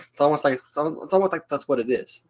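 dry, mock-serious "it's almost like" delivery; deadpan, as if stating the obvious; sarcastic. Real, not acted. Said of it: "I'm being sarcastic".

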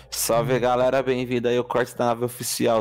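tipsy, loose delivery. Real, not acted. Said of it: "Tô muito bêbado".

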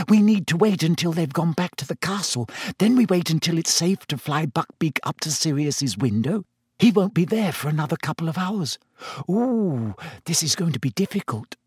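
anxious schoolgirl. Acted. Girl in hiding plans the rescue with her friend, mildly anxious. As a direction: lay out the plan with mild worry.

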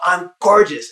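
proud yell from the crowd; crowd shout. Retold or imitated. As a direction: kids shouting an affirmation. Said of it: "they go".

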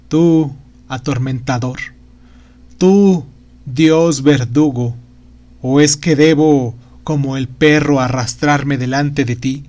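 a lightly voiced trembling old magician in torment. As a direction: plead and rail at a cruel god. The magician's lament.

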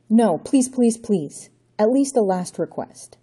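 Johnny begging the Count for time; pleading. Acted. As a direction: beg him to stop. Johnny begs for his life.

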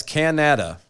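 Canada said as "ca-NA-da"; deliberately misaccented "ca-NA-da"; shifted-stress Canada. Shown as a demonstration. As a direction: stress the middle syllable of Canada. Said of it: "putting the proper emphasis on the right syllable".

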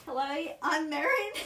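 lightly attempted Australian accent. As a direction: introduce yourself in a mild Australian accent. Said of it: "now you do the Australian one".

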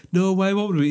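lightly acted clueless comeback; oblivious reply. Answering the guy who spots the flaw, mock oblivious.

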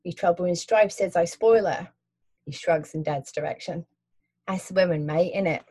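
friendly London cabbie asking; Cockney cabbie. Acted. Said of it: "Cockney accent".

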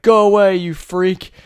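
high, loud shooing yell; mock yell. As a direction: shout him off like a crazed surgeon. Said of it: "He was like".

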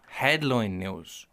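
slow, drawn-out mock news announcement; mock headline news. To his mate, mock newsreader listing papers, slowly drawn out.

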